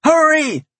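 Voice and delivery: very high panicked urging; terrified howl. A narrator's reading. Farmer urging stranger away from imp, terrified howl. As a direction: urge them to flee in terror. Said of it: "howled at me in terror".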